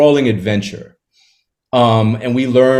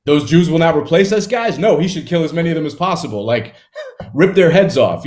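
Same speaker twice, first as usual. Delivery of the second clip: lightly voiced comic celebrity, higher; a mock, higher Larry David gleefully endorsing violence; Larry David impression; 4 semitones higher than usual. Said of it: "Larry David is like".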